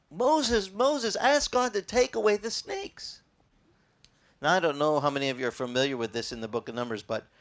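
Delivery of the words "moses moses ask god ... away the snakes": higher, slower mock plea; pleading cry. Bitten Israelites begging Moses for help, slow higher plea. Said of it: "they started crying".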